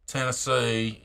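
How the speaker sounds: imitating an old Tennessee accent; Southern accent. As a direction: say it with a light Southern twang. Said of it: "originally had a Southern accent".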